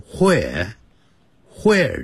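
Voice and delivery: WHERE with a breathy "hw" onset; Northeastern US where. Shown as a demonstration. Teacher shows New York pronunciation, "where" as hwere. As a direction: start "where" as "hwere", drawn out. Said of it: "他会念成where，where的音".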